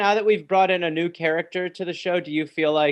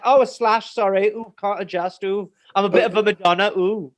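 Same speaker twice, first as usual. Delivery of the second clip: slightly higher mock English affectation; put-on English accent; 5 semitones higher, 3 dB louder than usual. Boy excusing his English slang to classmates, affected English accent. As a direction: lightly mimic an affected English-accented kid. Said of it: "I'd be like".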